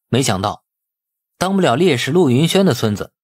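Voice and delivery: usual speaking voice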